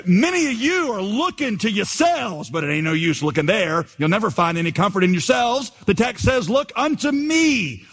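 folksy Essex preaching, rising high on the text; mock broad Essex pulpit voice; broad Essex accent. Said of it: "said he in a broad Essex accent".

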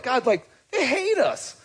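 put-on half-laughing, voice it like a kid tattling; laughing paraphrase. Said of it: "he's going to God like".

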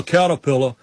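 "Caterpillar" with the R's dropped, like "cattapilla". Retold or imitated. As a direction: imitate someone who can't pronounce R in "Caterpillar". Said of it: "he couldn't pronounce ours".

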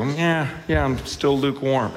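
offhand, indifferent reply; casual shrug. Retold or imitated. Imitating people who hear the message, casual. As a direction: brush it off casually. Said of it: "just casually say you're lukewarm".

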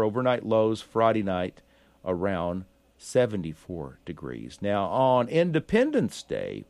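steady radio forecast read; weather report read. Acted.

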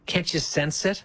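hushed, coaxing whisper. Pretend. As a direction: lean in and whisper it temptingly. Teasing hushed sales pitch.

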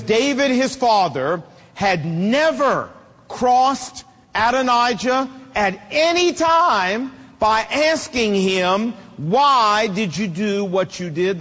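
slow, deliberate Bible reading; scripture reading. Real, not acted. Preacher reading scripture to the men, slow and emphatic. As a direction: weigh each phrase of the verse. Reads the Bible verse aloud.

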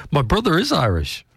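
said high through a laugh. Real, not acted. Laughing insistence about brother being Irish.

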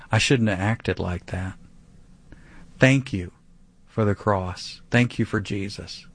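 measured, understated thankful prayer; calm contrition settling into thanks; sincere prayer. Acted. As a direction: pray it simply, unhurried, with pauses. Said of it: "see, here's what I do".

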